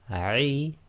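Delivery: "Ai" started then squeezed in the throat; Arabic ain. Shown as a demonstration. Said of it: "again with ain".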